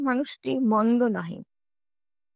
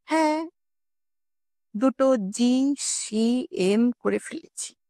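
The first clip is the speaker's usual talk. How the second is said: innocent goody-goody; 3 semitones higher, slower than usual. Acted. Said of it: "অত্যন্ত ভালো মানুষের মতো বলল".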